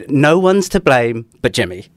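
slow pointed teacher voice; mock a teacher blaming Jimmy. A teacher to the class, slowly pointed. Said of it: "if you're a teacher and you say".

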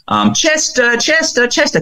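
put-on an eager eight-year-old calling Chester; boy calling his dog. Boy runs in calling his dog, high child voice. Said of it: "the boy comes running in and says".

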